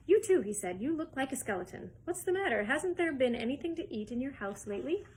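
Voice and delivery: chirpy showman Wonka; quirky candy maker talking fast and high; eccentric Wonka. Acted. Wonka voiced high and lively.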